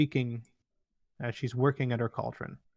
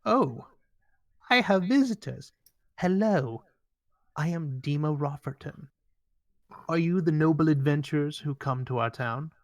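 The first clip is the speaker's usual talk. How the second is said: put-on higher, bright old-lady gnome voice; an old gnome lady, pleased to see visitors; elderly gnome healer; 3 semitones higher than usual. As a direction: greet them as a fussy old gnome. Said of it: "And she says".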